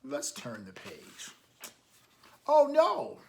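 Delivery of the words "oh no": high loud gasped oh no; mock dismay. Reading to children, a big mock oh no. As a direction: play up the shock for the kids. Reacting to wave in story.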